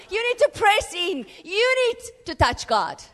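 loud, rousing pulpit exhortation; fiery preaching. Acted. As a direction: drive the congregation to go forward. Preacher exhorting the church at full force.

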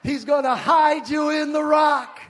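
hide hit hard, voice loud; preached shout. Shown as a demonstration. Preacher declaring the promise to the congregation, loud proclamation. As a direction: proclaim it to the whole room. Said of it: "look at somebody and say".

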